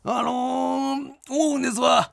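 light Kansai comedian voice, slow, chatty opening; Miura Mild impression. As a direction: play a Kansai comedian easing into his opening bit. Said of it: "あー、マイルドさんだ。".

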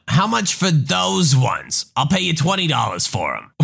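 lightly voiced pushy mom, wheedling; a hint of a demanding mother bargaining; entitled mother voice. Entitled mother haggling with the narrator, pushy.

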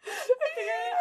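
loud. Real, not acted. Still in growl after demo.

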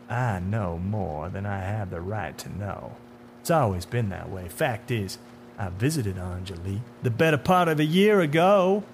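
a hint of a knowing tormentor; lightly voiced, self-satisfied menace; sinister man in dark suit.

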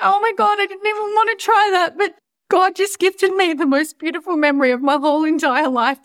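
high, teary laughing voice; crying with laughter. Real, not acted. Remembering the best moment ever, laugh-crying real. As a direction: squeak it out through tears of laughter. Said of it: "I'm dying".

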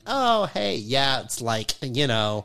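put-on Valley accent. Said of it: "the Valley accent".

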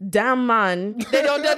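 imitating mom's Caribbean accent, rising at the end; a touch of Caribbean lilt. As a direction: lightly voice mom's island accent. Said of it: "wait till you hear my mom's accent".

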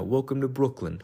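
imitating a Brooklyn cop's greeting, self-consciously butchered Brooklyn accent. Police officer welcoming marathon runners off the bridge, in a lightly done Brooklyn accent. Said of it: "his Brooklyn accent".

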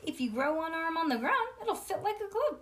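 high mocking girl voice; sing-song taunt; lightly voiced bratty girl; May's taunt. May taunting in story.

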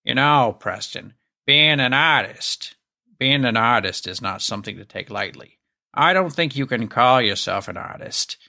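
a light imitation of an old school Boston painter's accent; thick Boston accent. Boston mentor lecturing his student, in a lightly imitated Boston accent. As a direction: lightly mimic a Boston accent, slowing on being an artist. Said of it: "in his thick Boston accent".

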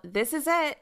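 calling out eagerly, pitch up; excited call. Retold or imitated. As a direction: shout it like a big discovery. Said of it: "excitingly calling out".

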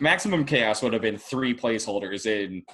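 tickled, laughing mid-sentence; amused laughing. Real, not acted. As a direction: chuckle breaking into the words. Tickled by his chaos scenario.

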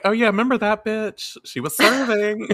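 high sassy gossip; catty gossip voice. Retold or imitated. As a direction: dish it like a catty onlooker. Gossiping villain museum visitors.

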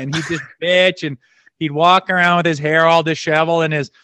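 ordinary talk

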